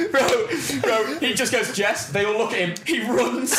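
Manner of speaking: high-pitched, helpless laughter through the words; laughing while talking. Real, not acted. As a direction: struggle to get the punchline out through laughter. Laughing through his own punchline.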